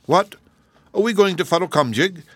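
surprised question. A narrator's reading. Captain General asks about going to Futtlecombjig, surprised. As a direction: ask it with a jolt of surprise.

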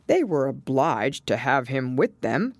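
lightly voiced turtle explanation; Mock Turtle.

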